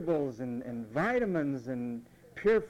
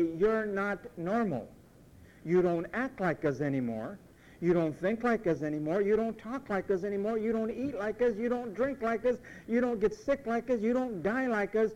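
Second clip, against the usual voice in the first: people from the past; 4 semitones higher than usual. Retold or imitated. Preacher voicing old friends accusing the faithful, building up. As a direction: mimic the old crowd rising in accusation. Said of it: "they say".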